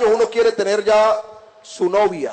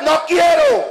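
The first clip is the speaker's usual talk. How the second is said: raised-pitch mock refusal; acted teenage refusal; 5 semitones higher, slower than usual. Moody adolescent refusing to come and eat, acted teenage refusal. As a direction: play a teenager rejecting dinner. Sullen teen refuses food.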